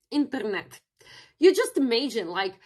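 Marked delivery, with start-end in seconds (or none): 0.1-0.8 "internet" repeated the Russian way; "internet" with a Russian accent; Russian pronunciation. Shown as a demonstration. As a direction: say "internet" as a strong Russian man would. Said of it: "imagine that you're a strong Russian man".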